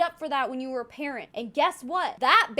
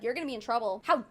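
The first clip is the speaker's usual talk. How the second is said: mocking the mom; 3 semitones lower, 3 dB louder than usual. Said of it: "and the mom's like".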